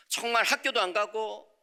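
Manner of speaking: usual speaking voice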